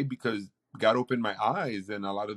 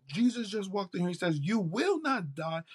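higher, eager report; excited retelling; 6 semitones higher than usual. Retold or imitated. Son telling his mom the prophecy, excited. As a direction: pass on the message, thrilled. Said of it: "And I go".

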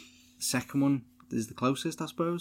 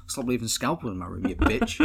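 mock bratty yell. Mock Michael snapping at mum.

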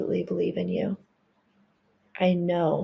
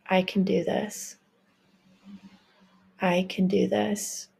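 affirmation. Shown as a demonstration. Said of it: "Say it with me".

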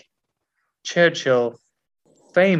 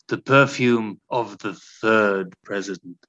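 perfume advert voice; 4 semitones lower than usual. Acted. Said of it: "in the style of a perfume advert".

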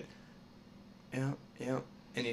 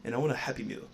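failed Stewie impression; 2 semitones higher, faster than usual. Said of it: "That did not sound like Stewie".

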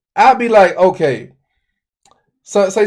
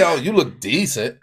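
lower, softer offhand compliment; his own delivery; 3 semitones lower, 6 dB quieter than usual. Shown as a demonstration. Man showing how he gives a compliment, understated. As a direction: toss off "decent" quietly. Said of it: "that's just how I say".

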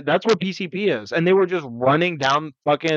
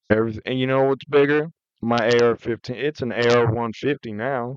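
put-on Southern accent; 3 semitones lower than usual. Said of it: "That was more Louisiana".

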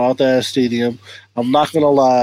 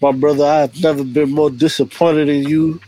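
mock disappointment. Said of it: "Nah, I'm playing".

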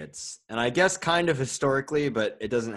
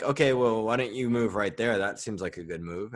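unmarked sarcasm. Retold or imitated. Friend retelling a board game lesson, deadpan sarcasm. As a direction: imitate straight-faced sarcasm with no tonal giveaway. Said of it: "you didn't give him, like, any sarcastic tone".

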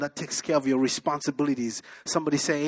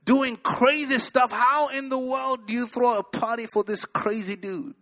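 put-on indignant older brother; 5 semitones higher than usual. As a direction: huff like a resentful older brother. Older brother complains about party.

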